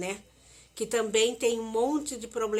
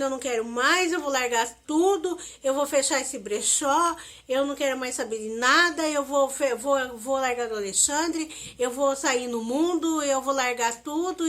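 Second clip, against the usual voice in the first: retold yelling; 2 semitones higher, 5 dB louder than usual. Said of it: "e eu gritando".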